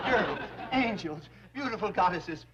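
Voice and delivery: butter them up, begging; pleading. Acted. The banker begs the angry girls for mercy, pleading.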